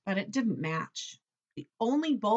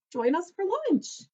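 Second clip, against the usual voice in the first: calling out; 9 semitones higher than usual. A narrator's reading. Repeats Turtle's call.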